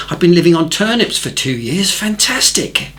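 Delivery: eager, delighted city man. Retold or imitated. Londoner delighted.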